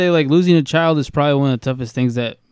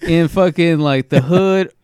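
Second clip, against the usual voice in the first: incredulous rant; 6 semitones higher, 4 dB louder than usual. Retold or imitated. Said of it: "I was like".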